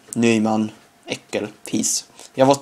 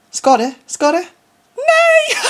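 rising excitement; 5 dB louder, slower than usual. Real, not acted. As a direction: pitch climbing to a shouted no. Excited build to shout at goal.

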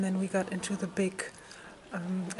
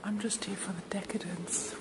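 whispering; 7 dB quieter than usual. Real, not acted. Filming quietly inside the palace.

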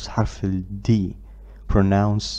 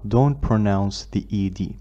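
whisper; much slower than usual. Real, not acted. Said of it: "unvoiced whisper".

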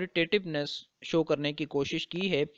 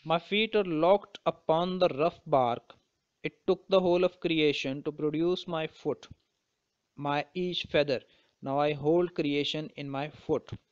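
slow, deliberate poetry reading; measured, unhurried reading of verse; poem recitation; much slower than usual. Acted. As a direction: recite the verse slowly, phrase by phrase. Reads the poem aloud.

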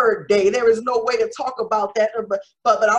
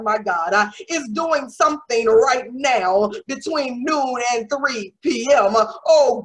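raised, insistent sermon voice; fervent preaching; 2 semitones higher than usual. Real, not acted. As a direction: proclaim it with preaching fervour. Preaches forcefully again.

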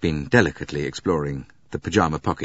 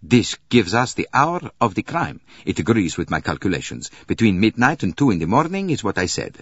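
louder, eager doctor explaining; 4 semitones higher, 5 dB louder than usual. Acted. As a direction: press the point eagerly, a little raised. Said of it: "cried Constantine eagerly".

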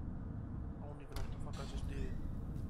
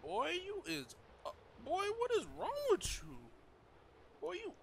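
mock high teasing. Mocking the ugly character.

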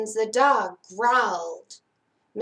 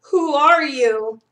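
higher, louder frightened question; whimpering; 4 semitones higher, 6 dB louder than usual. A narrator's reading. Sally facing the strange cat, mildly whimpering. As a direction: voice a scared child, pitched up. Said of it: "whimpered Sally".

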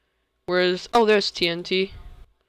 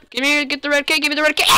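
higher-pitched yell at the game; real yell; 7 semitones higher, much faster than usual. Real, not acted. Gamer yelling at the game for the red key. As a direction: yells for the red key, half laughing. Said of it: "Yelling. Why am I yelling?".

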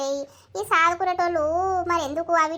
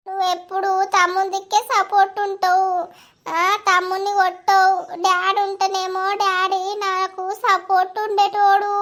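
put-on whining child; 4 semitones higher than usual. Girl sulks at mother.

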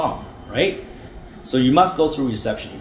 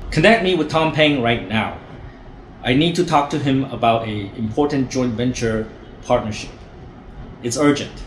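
firm, demanding caller tone; commanding right voice; 3 dB quieter than usual. Shown as a demonstration. Trainer showing the confident way to ask, firm and demanding. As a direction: order it like you own the place. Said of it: "Say it with the right voice".

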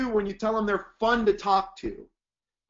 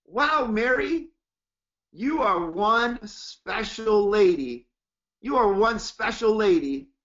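slow warm praise; slower than usual. Shown as a demonstration. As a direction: draw out the praise slowly and sincerely. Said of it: "listen to my tonality".

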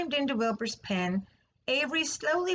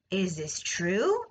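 suspicious; 3 semitones lower, slower than usual. Acted. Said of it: "eyeing the sac suspiciously".

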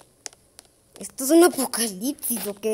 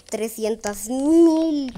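drawn-out reading; 3 dB louder, much slower than usual. Real, not acted. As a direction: stretch each word out very slowly.

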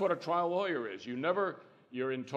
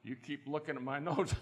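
with a smile. Shown as a demonstration. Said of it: "you say with a smile".

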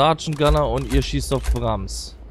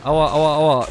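yelping ouch ouch; hopping in mild pain; walking on hot sand; 3 semitones higher, 5 dB louder, slower than usual. Real, not acted. Taking damage in game.

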